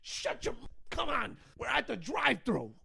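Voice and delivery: hushed parent scolding; whispered scolding. Retold or imitated. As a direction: hiss at the kids to hush. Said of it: "They're like".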